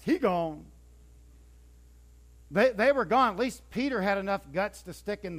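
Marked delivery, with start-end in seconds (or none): 0.0-0.6 lightly voiced ballpark announcer call; a quick hint of a sportscaster's call; White Sox announcer. Preacher quoting the White Sox announcer, lightly voiced. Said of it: "like the announcer for the White Sox".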